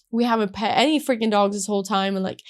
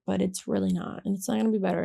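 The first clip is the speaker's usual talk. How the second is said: upset self-doubt; 5 dB quieter, faster than usual. Retold or imitated. Upset woman answering her own pep talk, quietly deflated. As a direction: drop back down and quietly contradict the hope. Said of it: "I was just so upset".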